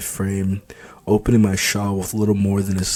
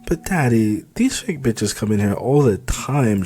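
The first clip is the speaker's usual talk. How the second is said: whining; 2 semitones higher than usual. Acted. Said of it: "she whines".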